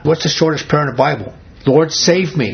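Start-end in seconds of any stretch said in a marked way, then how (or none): 1.7-2.5 higher, urgent retold cry for help; a short acted plea, pitched up; exclaimed plea. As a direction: quote it with an exclamation mark. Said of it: "punctuation mark is after that".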